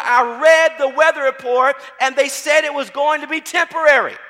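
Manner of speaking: loud, high-pitched sermon delivery; fervent preacher proclaiming the Word; full-force preaching. Real, not acted. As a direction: drive the scripture home to the congregation.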